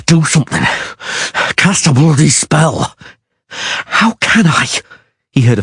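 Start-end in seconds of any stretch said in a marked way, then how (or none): 0.1-2.9 grunted. A narrator's reading. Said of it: "the Witcher grunted". 3.5-4.7 furious snarl. A narrator's reading. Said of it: "furious, muffled snarl".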